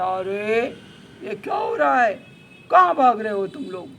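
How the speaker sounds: very loud, imperious challenge; commanding lion. Acted. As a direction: stop the runners with a booming demand. Lion suddenly appears and challenges runners. (शेर की रौबदार, ज़ोरदार आवाज़)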